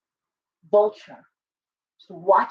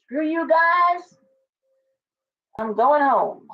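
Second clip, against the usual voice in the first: South Park quote; 5 semitones higher, slower than usual. Retold or imitated. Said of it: "South Park".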